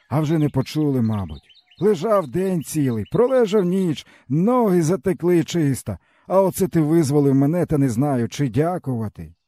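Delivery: weary peasant man. A narrator's reading. Stepan tells the boy his woes, bitterly. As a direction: speak as a broken old peasant.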